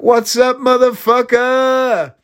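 high, drawn-out mock holler; imitated high-pitched yell, last word stretched; brash shouted greeting. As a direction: holler it like an obnoxious phone greeting. Retelling brash greeting over speakerphone.

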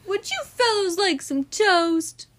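talking to dogs. A narrator's reading. Missus Watson talking to dogs.

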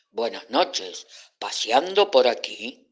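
cat greeting the frightened friends, lightly voiced; friendly cat.

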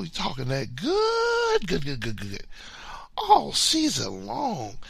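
high, slow whiny imitation of a rival fan; mocking his friend. Mocking his rival friend's season-long trash talk, lightly high and slow. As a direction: drag it out high like a sulking trash talker. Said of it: "And the talk kept on going".

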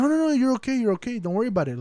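high, rushed "no no no" easing down; imitated reassurance. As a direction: mimic her waving off an apology, pitch dropping back. Quoting her brushing off his apology.

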